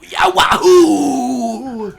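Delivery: high squeaky New Yorker gopher. Acted. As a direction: cheer like a tiny squeaky gopher. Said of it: "squeaky little, uh, New Yorker gopher voice go".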